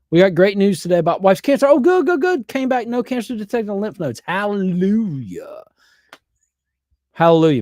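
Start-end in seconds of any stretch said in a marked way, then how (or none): 1.7-7.6 high, loud delighted cry; joyful relief. Real, not acted. Reading wife's cancer news from chat, joyful relief. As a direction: rejoice at good news.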